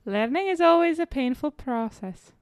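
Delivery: slow attempt at an accent, sounding a bit Indian; accidentally Indian-sounding accent. Player giving the quote again, Indian-sounding accent. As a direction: say it slowly, accent slipping toward Indian. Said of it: "it would sound like it".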